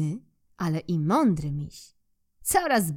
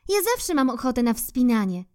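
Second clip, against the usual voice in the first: squirrel; 5 semitones higher than usual. Acted. Squirrel voiced in story.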